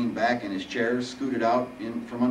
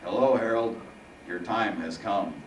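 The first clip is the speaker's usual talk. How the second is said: phlegmy ominous voice. Acted. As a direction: announce doom through phlegm. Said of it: "the phlegmy voice responded".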